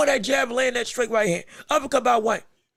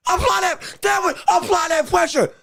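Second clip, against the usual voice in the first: 1 shouted instructions; 5 semitones higher than usual. Real, not acted. Yelling instructions at fighter.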